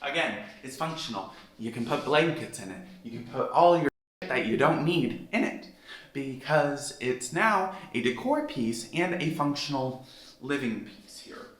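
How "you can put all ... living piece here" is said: out of breath. Real, not acted. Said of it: "I am out of breath".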